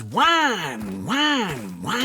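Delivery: slow, whiny mockery; mocking whine. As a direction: drag out the whining to mock him. Mocking husband's complaints.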